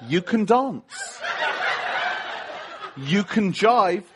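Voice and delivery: slow, halting delivery of song lyrics; drawn-out, deliberate lyric with long pauses; hesitant lyric quote. Retold or imitated. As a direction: recite pop lyrics slowly as a solemn message. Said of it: "in the words of abba".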